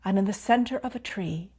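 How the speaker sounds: calm meditation guide with long pauses; unhurried phrases, each left to settle in silence; guided meditation. Real, not acted. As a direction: lead them gently inward, pausing between phrases.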